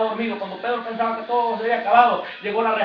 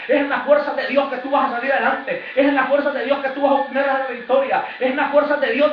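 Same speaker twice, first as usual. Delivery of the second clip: building preaching; 4 dB louder than usual. Real, not acted.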